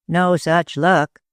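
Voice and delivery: slow, dismal reply. Acted. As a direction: say it slowly, a little defeated. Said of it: "replied the detective with a dismal face".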